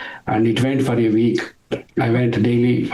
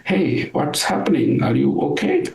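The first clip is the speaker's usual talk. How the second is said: put-on slow, kindly old teacher; gentle and slow; 2 semitones higher than usual. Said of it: "He slowly smiled and walked to me".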